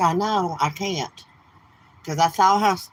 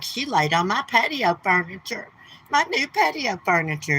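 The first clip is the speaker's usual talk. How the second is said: mock outrage; 2 semitones higher than usual. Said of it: "he act like she had done something horrible".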